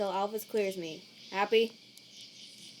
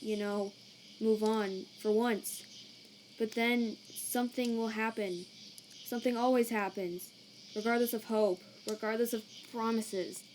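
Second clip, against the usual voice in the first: weary despair; 3 dB quieter than usual. Acted. Sans despairs, close to breaking down.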